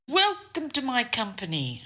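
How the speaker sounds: high, stretched-out mock welcome; booming voice. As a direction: mimic the boss's grand greeting. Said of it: "booming voice".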